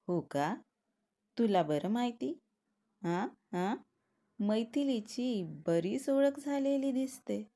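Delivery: teasing. Acted. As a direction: needle your friend about the girl. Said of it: "सुदीपला चिडवू लागला".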